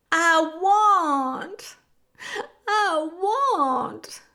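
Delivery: high, loud, drawn-out wail; loud acted cry of longing. A narrator's reading. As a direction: wail it out like a desperate child. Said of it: "cried Meg".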